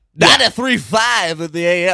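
happy, upbeat morning radio DJ voice. Asked to do a rapper impression, attempting a bad impression of a rapper. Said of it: "a bad do happy morning radio DJ impression".

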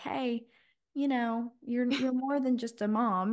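put-on gentle voice. A mom retells the Lord speaking to her during quiet time, quoting in a gentle voice. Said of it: "be like in a gentle voice".

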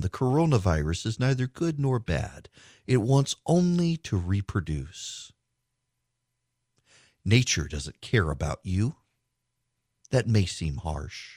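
calm public-radio announcer delivery. Reading aloud from a philosophy professor's article, in an NPR voice. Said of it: "don't you love my NPR voice?".

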